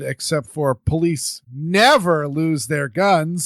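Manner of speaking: slow, sarcastic emphasis. Acted. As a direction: drag it out with mock sincerity. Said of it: "sarcasm font".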